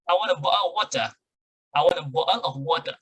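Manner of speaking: British accent with the t swallowed in bottle. Shown as a demonstration. Teacher shows students how the British ask, British accent. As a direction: drop the t like a Brit. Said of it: "British, maka dia akan bilang".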